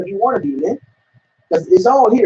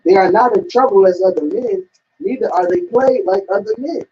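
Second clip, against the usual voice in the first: scripture reading. Shown as a demonstration. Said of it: "Psalm seventy-three and five".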